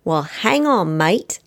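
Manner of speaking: put-on light, playful Australian accent; a hint of a cheerful Aussie greeting. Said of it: "said with my best Aussie accent".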